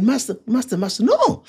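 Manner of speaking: high-pitched, repeated pleading objection; Martha. Retold or imitated. Sister stopping Jesus at the tomb, high pleading protest. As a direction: plead urgently in a high imitated voice.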